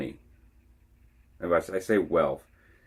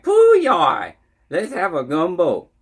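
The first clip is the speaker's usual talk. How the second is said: exaggerated Cajun accent, much higher and louder; over-the-top Cajun accent, high and loud; Cajun impression; 13 semitones higher, 12 dB louder than usual. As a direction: ham up the Cajun drawl like a caricature. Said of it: "Man, they talk like this".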